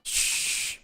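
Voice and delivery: soft shushing, voice dropped low; hushed. Real, not acted. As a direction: hush everyone down gently. Hushing the loud stream.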